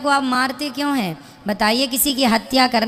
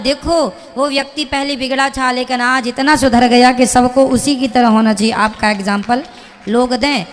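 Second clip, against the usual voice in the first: louder, building to a shout; fervent exhortation; 5 dB louder than usual. Real, not acted. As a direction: preach it with rising force. Preacher exhorting young man to reform. (ज़ोर से, चिल्लाते हुए उपदेश)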